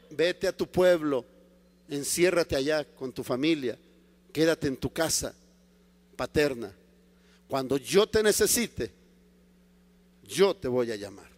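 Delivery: low, soft, measured authority; God's calm command. Acted. The Lord sends Paul home to wait, calm command. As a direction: send him off quietly and firmly. God answers Paul's protest.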